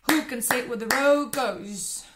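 rushed and loud, racing the rhythm; fastest, loudest take. Shown as a demonstration. Teacher ends the speed drill in a loud rush. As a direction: spit it out at top speed. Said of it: "Last time".

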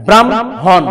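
"ব্রাহ্মণ" with the h pushed behind the m; h after m. Shown as a demonstration. Teacher shows one rule's result, ব্রাহ্মণ as bram-hon. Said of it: "সেই ক্ষেত্রে উচ্চারণ হবে".

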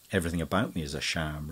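fast, easy and cheerful; good-humoured. Acted. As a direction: toss it off lightly. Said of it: "in complete good humour".

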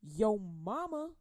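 slow drawn-out Yo mama with an attitude. Retold or imitated. Kid taunting another kid with attitude. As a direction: say it like a dare. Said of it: "they came out with an attitude".

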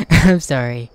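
sorry through a laugh; slow laughing sorry; laughing apology. Real, not acted. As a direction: giggle out the apology.

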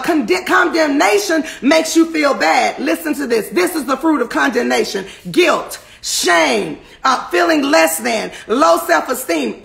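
full-force pulpit exhortation; fervent preaching. Real, not acted. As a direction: preach it hard to the congregation.

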